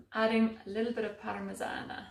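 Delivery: playful put-on Italian accent on the cheese; mock Italian accent. Cook adding cheese, playful mock Italian accent. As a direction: ham up a light Italian accent. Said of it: "Why do I only put on an Italian accent".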